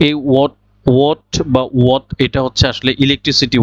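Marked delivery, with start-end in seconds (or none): 0.3-2.1 "what" said "wot", like watt; correct pronunciation. Shown as a demonstration. Teacher likens it to the electricity word, "what" as "wot". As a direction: repeat "what" slowly without any h. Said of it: "তাহলে আমরা এখন কারেক্টটা শিখবো".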